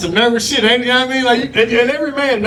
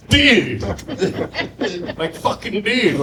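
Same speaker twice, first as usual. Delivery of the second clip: put-on white boy dude voice; 3 semitones higher, much slower than usual. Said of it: "develop that voice".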